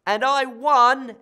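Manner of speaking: loud, slow and proud; triumphant cry. Acted. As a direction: shout the win, stretching it out. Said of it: "Ella cried".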